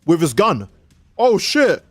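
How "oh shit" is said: mock panicked fumbling. Flustered cop confuses taser and gun.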